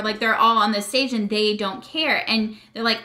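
normal talking voice

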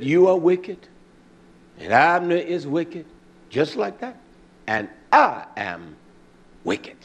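lightly voiced little girl, a touch of sing-song; child's sing-song. Preacher imitating his small daughter's little chant. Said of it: "That's how she said it".

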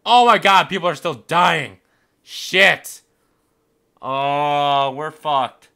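loud, high cries of dismay; high-pitched gamer outburst; alarmed yelling. Real, not acted. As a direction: yell in panic at the disaster. Gamer sees citizens still dying.

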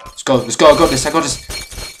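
hyped self-talk, punchy; psyching myself up. Real, not acted. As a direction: pump yourself up before the jump. Pumping himself up mid-level.

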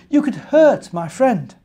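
a tiny fussy ant pushing back. Acted. Ant turning down the bear's help, high squeaky little ant voice.

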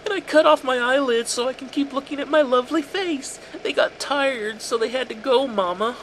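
put-on high, loud, eerie childish voice; unhinged sweet voice. A narrator's reading. A son showing his mother his cut smile, high and unhinged. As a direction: sing the smiles like a lullaby gone wrong.

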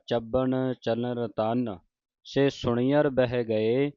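rest on ਰਤਨ, then begin ਸੇ afresh; a clear halt after ਰਤਨ; pause after ਰਤਨ. Shown as a demonstration. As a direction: break the verse between ਰਤਨ and ਸੇ. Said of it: "ਸੋ ਰਤਨ ਤੇ ਵਿਸਰਾਮ ਲਾਉਣਾ".

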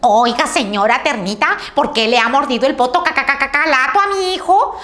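angry mother hen scolding the termite; furious hen. Acted. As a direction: scold the termite for biting her chick. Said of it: "se puso tan furiosa que le dijo".

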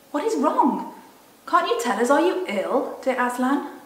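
put-on worried girl. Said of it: "asked Susan".

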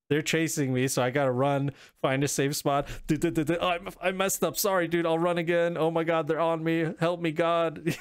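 hammed-up panic, running from bugs; being chased. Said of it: "there's bugs chasing you".

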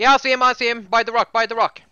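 shouting callout. Real, not acted. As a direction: yell out the enemy's position. Spotting enemy in firefight.

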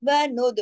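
वनुद with a bouncing release on d; qalqala. Shown as a demonstration. Teacher models the echo, वनुद with a released d. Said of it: "दाल पे कलकला होगा".

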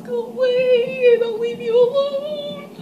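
very high, squeaky begging; desperate high plea. Real, not acted. Scared player squealing a high-pitched plea at the monster. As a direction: squeal at it to go away.

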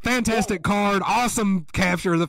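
high, light voice brushing it off; mock dismissive self. Podcast host imitating his past self skipping the card, high and airy. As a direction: pretend to wave the card away, high and airy. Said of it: "I was like".

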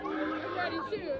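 flat, quiet, barely voiced; half-hearted ready. Real, not acted. Fan answers the host quietly, unenthusiastic. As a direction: mumble it without energy. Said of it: "let's hear a little bit more, like, enthusiastic".

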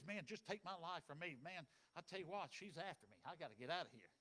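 low, soft, worn-out plea; despairing Elijah. Acted. Elijah begging God to take his life, low and soft.

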